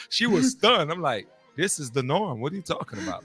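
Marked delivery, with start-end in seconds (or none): 1.5-3.2 softer, lower retold reply; offhand retort. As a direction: toss it off under the laughter, quietly. Retells his matter-of-fact reply.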